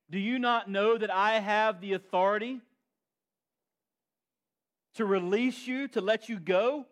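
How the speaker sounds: loud, high, demanding governor; bully the silent prisoner with your power; arrogant Pilate. Acted. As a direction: Pilate bristling at Jesus, haughty and loud. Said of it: "Look what he says".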